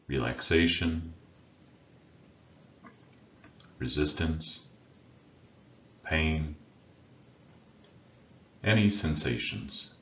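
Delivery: unhurried meditation guide with long pauses between phrases; guided meditation. Acted. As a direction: guide listeners inward, leaving silence after each instruction. Leads a meditation.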